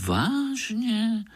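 high, bright surprised "really"; small spider struck by an idea; amazed question. A narrator's reading. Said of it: "podivil se Pája". (udivené vážně)

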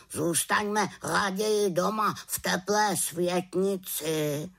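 a fussy raven refusing the outing. Acted. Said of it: "zvolal Abraxas".

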